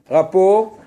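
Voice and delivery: "Rapport" said with a clear, open o sound and a slight rise; vowel o in rapport. Shown as a demonstration. Teacher sounds out "Rapport" for his class, a clear o. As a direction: sound out "Rapport" with a round o so the students hear it. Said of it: "c'est o".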